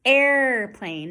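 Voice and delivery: "Airplane" with a long, clear R; good R. Shown as a demonstration. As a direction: stretch the air in "Airplane". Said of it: "That's a good R".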